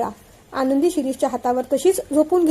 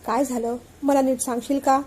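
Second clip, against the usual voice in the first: gentle asking; 3 dB quieter than usual. Acted. Husband gently asks crying wife.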